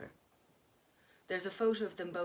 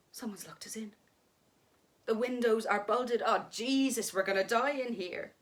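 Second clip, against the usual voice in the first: panicked; 3 semitones higher, 6 dB louder than usual. Acted. Kate trapped, panicking.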